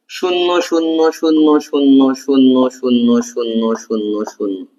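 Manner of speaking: slow sing-song count of zeros fading away; drawn-out zeros. Shown as a demonstration. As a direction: draw each zero out and let it sink. Teacher counts a row of zeros.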